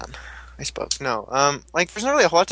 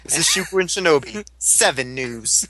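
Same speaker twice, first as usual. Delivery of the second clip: news anchor; slower than usual. Pretend. Mock news sign-off.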